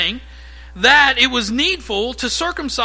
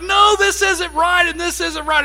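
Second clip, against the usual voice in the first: furious protest; 5 semitones higher than usual. Retold or imitated. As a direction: argue back hotly, dragging it out. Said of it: "I was furious".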